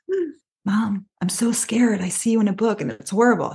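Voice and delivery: a hint of a scared daughter; mock scared child. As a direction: pretend to be a frightened little girl. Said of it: "She didn't come up to me with this, like".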